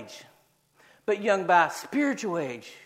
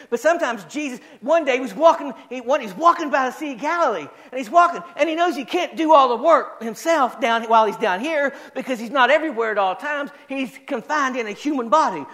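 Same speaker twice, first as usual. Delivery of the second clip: energetic pulpit storytelling; spirited preacher in full flow; animated preaching; 5 semitones higher, 4 dB louder than usual. Real, not acted. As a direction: preach the story with lively, driving emphasis.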